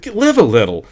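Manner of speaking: high, breathy-free gushing lady voice; wife cooing to her husband. A narrator's reading. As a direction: coo it like a tipsy wife. Gladys voiced in story.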